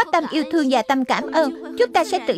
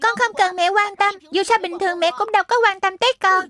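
put-on higher, resentful kid's complaint; boy telling mum she never cares, higher and sulky; sulky child; 4 semitones higher than usual. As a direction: throw the hurt back at mum. Sulky child quarrels with mother.

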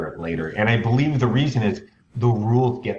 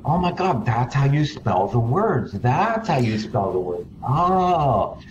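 realizing with surprise; 3 semitones higher, slower than usual. Retold or imitated. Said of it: "I remember taking this class and thinking".

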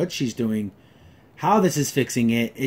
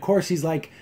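ordinary delivery

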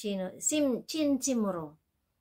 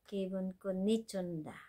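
fast rattled-off phrase; 5 dB quieter, faster than usual. Shown as a demonstration.

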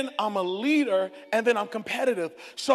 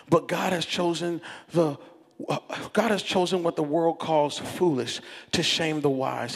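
low, measured reading aloud; scripture reading; 5 semitones lower than usual. Real, not acted. Pastor reading Corinthians to church, measured scripture reading. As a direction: read the verse gravely and deliberately.

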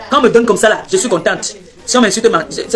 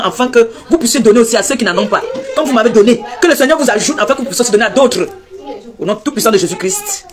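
a preacher's blessing, measured and solemn; blessing prayer. Acted. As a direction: bless the donors like a pastor at the pulpit. Blessing the stream's donors. (bénédiction solennelle de prédicatrice)

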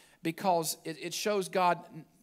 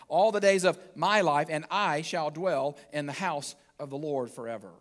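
psalm recitation, strong then easing down; scripture reading; 2 semitones lower than usual. Acted. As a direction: read the closing verse deliberately. Reads the psalm aloud.

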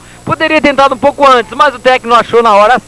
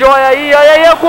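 rising excitement; 3 semitones higher, 4 dB louder, faster than usual. Real, not acted. Goal scored in live commentary.

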